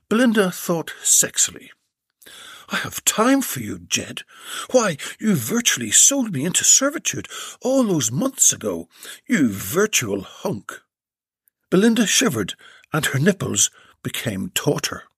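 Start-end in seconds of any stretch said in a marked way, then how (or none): 2.7-10.8 a coy lady teasing; Belinda's voice. Acted. Belinda flirts.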